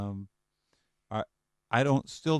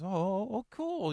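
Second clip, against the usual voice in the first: mock excited; 8 semitones higher, slower than usual. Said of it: "He says".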